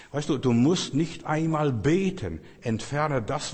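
slow emphatic preaching push; preaching emphasis. Acted. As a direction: lean in hard like a revival preacher. Preacher urging congregation.

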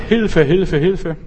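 mock cry for help. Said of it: "die Seele schreit".

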